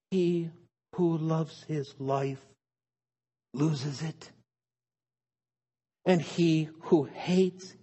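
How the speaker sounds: solemn scripture reading. Acted. Reads Jesus' words slowly.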